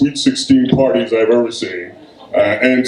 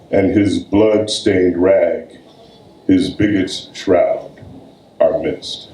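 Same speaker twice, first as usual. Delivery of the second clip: poem reading; 3 semitones lower than usual. Acted. Poet reading his own poem to an audience, solemn recital. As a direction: weigh each line like a verdict.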